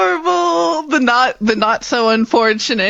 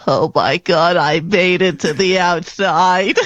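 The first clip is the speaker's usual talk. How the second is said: mock-tearful, choked-up relief; lightly played weeping with joy; overwhelmed, on the verge of tears; tearful character; 3 semitones lower than usual. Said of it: "big tears welling up".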